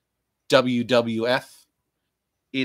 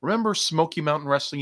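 ordinary delivery

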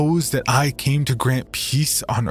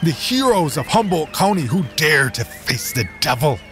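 preaching shout; 5 semitones higher than usual. Acted. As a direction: rouse the crowd to ride out. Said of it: "he shouted".

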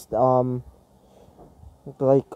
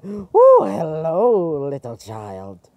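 crazy robot; 3 dB louder, slower than usual. Acted. Crazy robot greeting a child, unhinged swooping voice. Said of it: "he's basically crazy".

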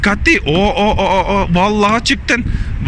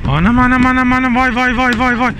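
excited repeated anam and vay, a little higher; amazed exclaiming; 4 semitones higher than usual. Real, not acted. Amazed at child climbing. (hayranlıkla heyecanlı nidalar)

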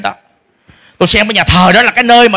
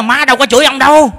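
high raised retort, then the father's high accusation; higher, raised mock argument; shouting at father; 8 semitones higher than usual. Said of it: "Tôi mới la lớn là".

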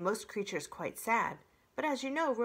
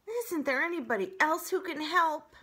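whining; 9 semitones higher, 6 dB louder than usual. Acted. Fox whines in pain.

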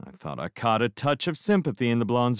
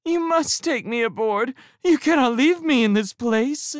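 high and louder, a hammed-up wail; wailing plea; 5 dB louder than usual. A narrator's reading. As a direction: whine out the escape story. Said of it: "I wailed".

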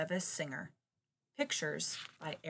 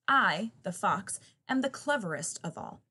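smug fox; 2 semitones higher, 5 dB louder than usual. Acted. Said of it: "yapped the fox".

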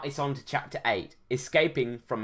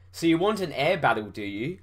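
shout; 2 semitones higher, 3 dB louder than usual. Acted. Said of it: "I shouted".

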